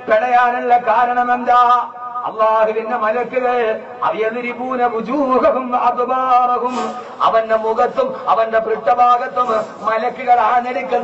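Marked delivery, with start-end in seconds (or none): 4.0-6.8 Quran recitation. Acted.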